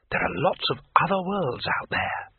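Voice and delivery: high, eager wonder; eager tourist voice. Acted. Two Flower marvels at worlds.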